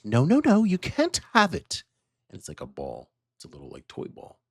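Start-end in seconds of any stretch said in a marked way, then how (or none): 0.0-1.8 high, firm mom voice refusing; mother saying no to her child. Acted. Mother refusing her son the ball.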